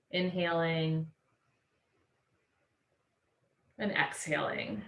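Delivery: measured, settling voice with long pauses; guided meditation. Real, not acted. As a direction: gently guide them to let go, easing down at the end.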